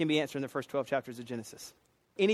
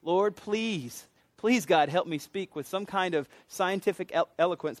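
pleading prayer; 2 semitones higher than usual. Retold or imitated. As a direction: mock-desperate plea, a little raised. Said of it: "been praying".

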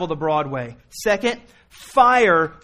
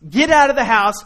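loud urgent yell to get out; screaming warning; 4 semitones higher, 7 dB louder than usual. Pretend. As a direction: shout them out of a burning house. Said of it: "I'm screaming at you".

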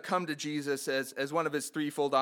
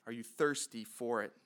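quieter repeat of the question; softer echo; 4 semitones lower, 6 dB quieter than usual. Shown as a demonstration. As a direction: ask it again, softer and more inward.

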